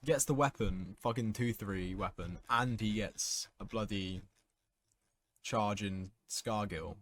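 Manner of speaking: frustrated, spitting out each word; annoyed rant. Real, not acted. Ranting at opponent's lucky play.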